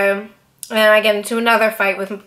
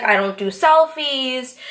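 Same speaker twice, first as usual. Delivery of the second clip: polite, slow, kind no; gentlemanly refusal; 3 semitones higher, slower than usual. Retold or imitated. Star politely refusing a crowd of fans, gentlemanly and slow. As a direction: turn them down gently and slowly. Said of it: "In the most gentleman way possible".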